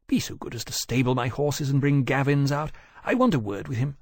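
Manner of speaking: a hint of a gentleman instructing servants; lightly voiced gentleman. Voices Wolvey giving orders.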